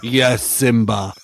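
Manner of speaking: low, slow lion-king father; Mufasa. Acted. Friend mocking the mistaken name, low Mufasa impression. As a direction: intone it like a solemn cartoon patriarch. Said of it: "accidentally calling him Mufasa".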